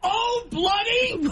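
high-pitched, drawn-out mock British cry; British accent. Shown as a demonstration. Co-host demonstrates the key phrase, hammed-up high British. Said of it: "I keep the word bloody in mind".

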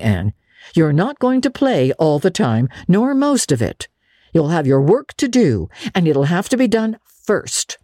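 a hint of a dry, stern elderly woman; stern Marilla. Marilla warning Anne about work, mildly stern. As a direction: lay down the rules firmly.

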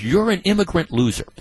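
mock yell. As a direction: throw the insult up high, lightly acted. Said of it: "in the tirade that he's screaming".

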